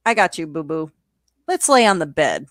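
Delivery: low, cooing mock comfort; mock soothing. Charles soothes his panicky date, low mock cooing.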